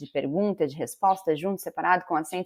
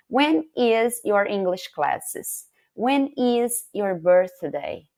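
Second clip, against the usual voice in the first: slow example; much slower than usual. Shown as a demonstration.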